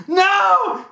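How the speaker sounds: very high, loud drawn-out scream. Retold or imitated. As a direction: imitate a hysterical man's scream. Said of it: "He's screaming".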